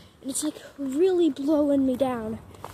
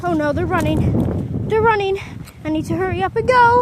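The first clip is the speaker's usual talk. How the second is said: rising, louder urgent alarm; 5 semitones higher, 6 dB louder than usual. Real, not acted. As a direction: panic as the dogs bolt. Dogs run, storm coming.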